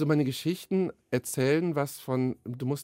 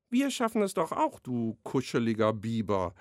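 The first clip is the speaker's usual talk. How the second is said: teasing; 2 semitones lower than usual. A narrator's reading. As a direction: coo it at him like a pet name. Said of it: "neckte Mama".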